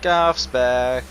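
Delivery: slow showman intro; announcer voice. Pretend. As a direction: announce it like a TV show host. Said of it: "I was stuck between something and the Flintstones".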